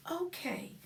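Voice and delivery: whisper. Real, not acted. Whispered transition.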